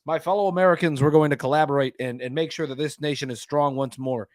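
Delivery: lightly voiced presidential address; a hint of composed speechmaking; Obama. President addressing fellow Americans, mildly formal and composed. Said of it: "it's Obama just being like".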